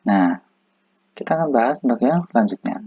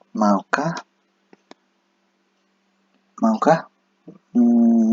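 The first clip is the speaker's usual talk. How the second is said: ordinary delivery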